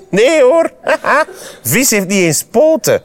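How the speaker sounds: high, laughing denial; scornful laughing. A narrator's reading. Frog mocking fish before the travellers, high scornful laughter. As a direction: laugh off the very idea.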